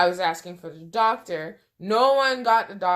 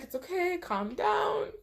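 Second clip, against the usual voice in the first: soothing; 9 semitones higher, 5 dB quieter than usual. Retold or imitated. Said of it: "she's like".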